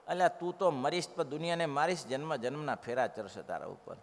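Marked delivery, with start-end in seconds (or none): none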